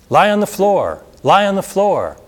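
high, loud frantic scream. Retold or imitated. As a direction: yell it in panic to the children. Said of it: "a teacher screamed".

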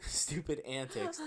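laughing. Real, not acted. Reader cracks up mid-story.

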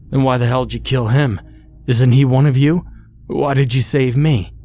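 loud confrontation. Acted. Bill confronts the clown about the killing, loud and fast. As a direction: push back at her, voice climbing.

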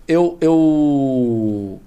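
slow, slurred tipsy speech; words dragging after a few drinks. Real, not acted. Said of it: "Tô bêbado já".

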